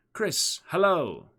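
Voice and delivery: high, loud, drawn-out hail; calling out. Acted. Girl on horseback hails Chris, calling out. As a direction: call a bright greeting across a distance.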